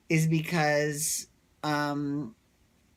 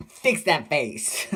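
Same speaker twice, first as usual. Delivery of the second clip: slow sassy put-down; slower than usual. Retold or imitated. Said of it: "just like Nene said".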